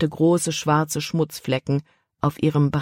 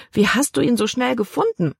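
put-on higher girl's voice, a touch upset; dismayed question; 7 semitones higher than usual. A narrator's reading. Girl asks father how he found the dog, higher voice. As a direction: ask it as a reluctant girl.

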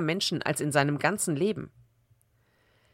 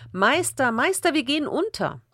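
raised, higher-pitched plea for help; urgent cry; 7 semitones higher than usual. A narrator's reading. Disciples waking their master in the storm, urgent cry. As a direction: call out in mild alarm, pitch jumping up.

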